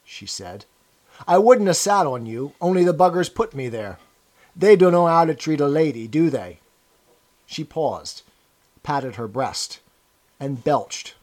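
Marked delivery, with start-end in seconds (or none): 1.3-6.6 put-on rough, loud, boozy old woman; drunk old woman.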